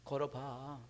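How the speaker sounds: hushed, barely voiced, afraid to be overheard; a doubting apostle whispering a healing; timid whisper. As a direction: whisper it so no one hears. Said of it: "그것도 크게 하면 안 돼요. 누가 들을까 봐".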